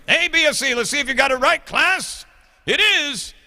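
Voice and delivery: hammed-up English accent lecturing students. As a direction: play a schoolmaster lecturing in a put-on English accent. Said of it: "the English accent".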